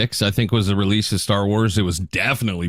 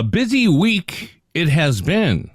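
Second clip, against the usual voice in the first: slow, Yoda-style inverted phrasing; 8 semitones higher, slower than usual. Shown as a demonstration. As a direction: speak it like Yoda, drawn out. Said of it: "I'm speaking like Yoda today".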